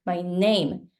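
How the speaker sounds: "My name" with NAME strong; weak "My", stressed NAME. Shown as a demonstration. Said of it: "I feel the stressed syllable".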